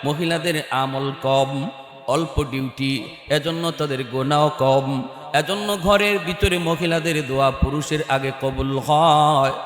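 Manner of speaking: hushed melodic preaching; intoned sermon storytelling. Real, not acted. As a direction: chant the story softly, stretching the line endings.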